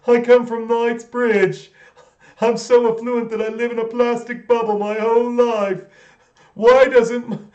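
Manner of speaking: put-on a smug, rich Londoner showing off in a British accent; mocking posh British accent; Soft Bob posh British. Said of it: "the Soft Bob character".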